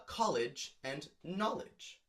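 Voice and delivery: slow, drawn-out rhyming pair; rhyme demo. Shown as a demonstration. Teacher slowly sounding out a rhyming pair. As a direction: stretch both words to show the rhyme. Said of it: "two words that sound the same from the stressed syllable".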